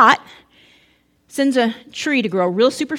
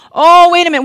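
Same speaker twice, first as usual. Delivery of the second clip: mock surprise; 5 semitones higher, 9 dB louder, faster than usual. Mock realization during sermon joke.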